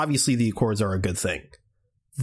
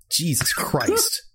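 exasperated whisper; 5 semitones higher, much slower than usual. Real, not acted. Exasperated rant about Captain America.

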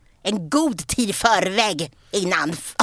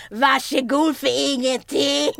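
sarcastic retort; 2 semitones higher, slower than usual. Retold or imitated. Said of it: "skriker Pamela tillbaka".

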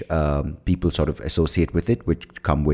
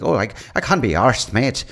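put-on Irish accent; 4 semitones higher than usual. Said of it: "as the Irish were like".

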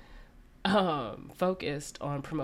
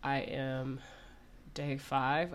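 real rough voice from covid; sick, smoker's voice; 4 dB quieter than usual. Real, not acted. Co-host apologizing to listeners for covid, sick voice. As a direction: talk through a sick, smoker's-cough voice. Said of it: "I sound like I have emphysema".

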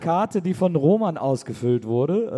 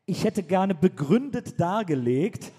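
strict formal reading; 2 semitones higher than usual. Retold or imitated. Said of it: "Christian fragt".

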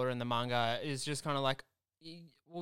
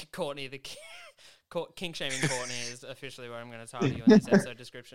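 laughing; 6 dB louder, faster than usual. Real, not acted. Cracking up while nicknaming Courtney.

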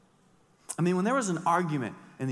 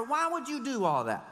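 mock disbelief; 9 semitones higher than usual. Mocking rhetorical question.

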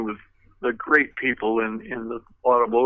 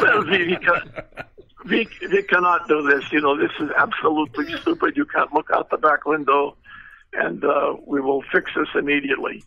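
put-on Russian accent; 2 semitones higher than usual. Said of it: "big, thick Russian accent".

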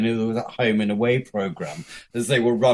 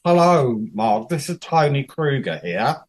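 Tony Kruger; 3 dB louder than usual. Retold or imitated. Australian boss phoning a job candidate, Australian accent. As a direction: have a go at an Australian caller's accent. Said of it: "I can't do an Australian accent".

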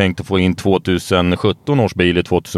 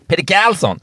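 much higher, starstruck shout of a name; mock excited fan shout; 9 semitones higher than usual. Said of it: "sa de inte". (spelat exalterat utrop, mycket högre)

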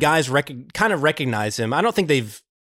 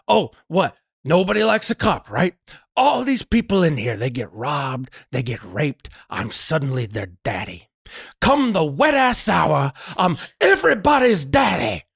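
mock flip-out; 3 semitones higher than usual. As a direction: act out the character losing it. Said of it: "he kind of immediately flips out".

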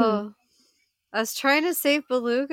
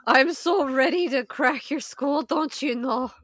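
lightly voiced folksy brawler; cheerfully menacing fighter character; 2 semitones higher than usual. Player threatens the bugbear in character, folksy menace. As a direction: play a chummy brawler eager to fight.

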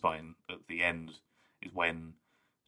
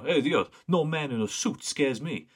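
slow, loud, higher-pitched swaggering worker; construction guy; 8 semitones higher, 5 dB louder than usual. Retold or imitated. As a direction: imitate a cocky construction guy, drawn out. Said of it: "construction guy to meet the Dalek".

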